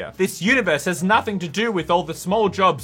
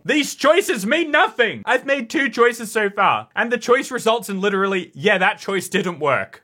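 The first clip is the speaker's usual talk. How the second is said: mock outrage; 6 semitones higher, 4 dB louder than usual. Real, not acted. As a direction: rant at the game, hammed-up.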